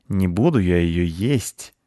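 slow, musing cat voice; thoughtful. Acted. Cat muses aloud whether to eat the squirrel. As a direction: weigh it up slowly, half to yourself. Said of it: "задумчиво сказал кот".

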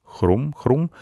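high imitated munching; two dainty rising crunches; delicate crunching. A narrator's reading. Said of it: "послышалось деликатное хрустение". (деликатный хруст)

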